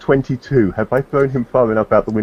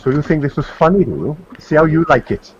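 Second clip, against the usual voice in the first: menacing taunt; 6 semitones higher than usual. Acted. Blake menacing the man at window.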